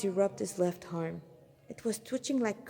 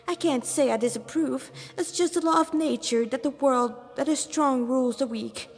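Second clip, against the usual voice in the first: flamboyant demon lieutenant; 4 semitones higher than usual. Acted. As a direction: show off your rank to the cornered humans.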